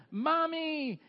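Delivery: high, loud, drawn-out holler; yelling. Retold or imitated. Son running towards an unresponsive mother, yelling. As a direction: keep yelling for attention, stretching it out. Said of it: "and he keeps yelling".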